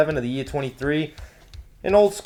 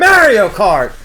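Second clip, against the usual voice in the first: echoed cheer; 6 semitones higher, 8 dB louder, slower than usual. Acted. Echoing co-host's cheer.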